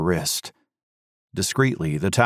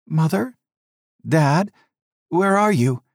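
higher, youthful calling voice; young son calling; 9 semitones higher than usual. A narrator's reading. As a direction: son calls up to his parents from the dark, calling. Son calls from darkness below.

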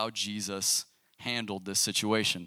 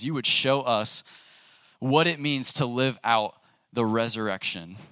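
prayer. Acted. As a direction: pray over the room, unhurried. Leads the room in prayer.

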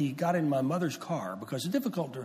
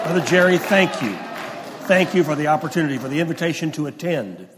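excited; 3 semitones higher, 9 dB louder than usual. Real, not acted. Excited thanks from the pulpit.

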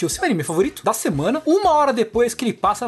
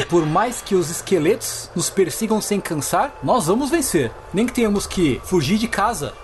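grand herald voice; 4 semitones lower than usual. Acted. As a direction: announce it like a feudal lord.

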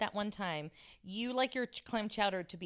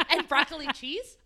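giggling through the question; laughing, a bit louder; 6 semitones higher, 5 dB louder than usual. Real, not acted. Teasing list while laughing.

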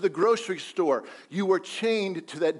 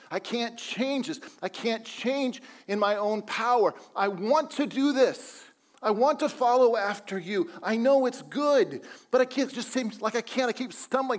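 higher pleading voice of a despairing apostle; Paul crying out; 4 semitones higher than usual. Acted. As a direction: cry out to God, worn out and desperate. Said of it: "he's crying out in agony".

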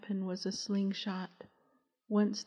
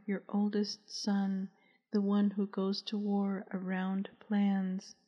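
lightly hoarse, halting voice; a hint of a choked, hoarse son. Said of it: "the voice said hoarsely".

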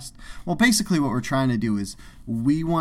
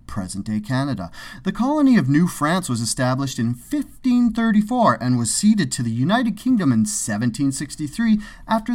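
encyclopedia paragraph read with lively pitch swings; put-on reading voice. Co-host reading Wikipedia on Canada's history, performed reading voice. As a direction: recite history like a presenter, emphasis on the dates. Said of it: "If you talked in that voice".

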